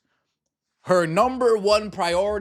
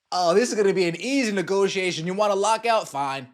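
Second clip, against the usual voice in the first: smug owners; 2 semitones higher than usual. Retold or imitated. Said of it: "That's what the owners are saying".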